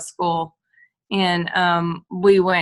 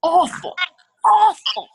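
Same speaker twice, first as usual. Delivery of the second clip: emphatic repeat; 10 semitones higher, 5 dB louder, slower than usual. Retold or imitated. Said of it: "they were awful".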